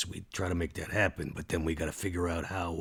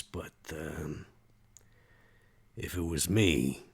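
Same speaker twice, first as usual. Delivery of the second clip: hesitant Max. Acted. Max on staying in one place, hesitant. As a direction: weigh it up with long pauses.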